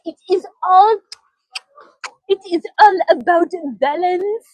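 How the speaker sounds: mouth full. Retold or imitated. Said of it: "you know, through eating".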